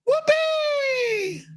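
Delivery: shrill falsetto whoopee; high shriek. Acted. Shrieked exclamation.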